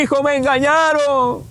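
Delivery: imitated pained protest; acted lament. Dead father laments to his son.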